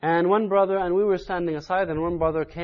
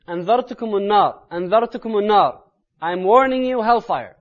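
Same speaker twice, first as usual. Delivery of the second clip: raised, urgent pulpit warning; louder repeated warning; 4 semitones higher, 7 dB louder, much faster than usual. Retold or imitated. Preacher repeats the Prophet's warning of hellfire, raised urgent voice. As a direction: repeat it insistently, high and loud. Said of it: "his voice was going louder and louder".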